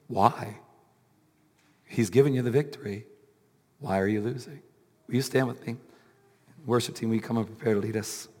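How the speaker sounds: tired, strained preaching voice; worn-out voice at the end of a sermon; weak voice. Real, not acted. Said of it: "through my weak voice".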